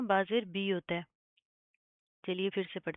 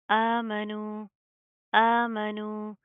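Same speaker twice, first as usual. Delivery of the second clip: recitation; 4 dB louder, much slower than usual. Shown as a demonstration. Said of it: "same वैसे ही अदायगी करनी है".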